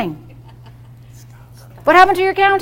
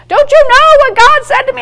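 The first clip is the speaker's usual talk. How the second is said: higher, pushy mock scolding; mock preachy nagging; 8 semitones higher, 3 dB louder than usual. Mocking believer lecturing unsaved family, pushy. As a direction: mimic someone preaching at their family.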